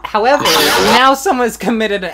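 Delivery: loud, high dramatic reveal. Acted. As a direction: build it up like a big reveal. Dramatic announcement of evil.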